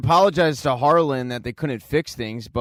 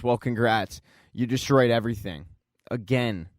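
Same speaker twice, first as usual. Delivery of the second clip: understated weary sarcasm, low-key; dry retold reproach, pausing before the last word; fed up; 3 semitones lower, 3 dB quieter than usual. Fed-up Luther reproaches Victor, understated. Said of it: "Luther's fed up and says".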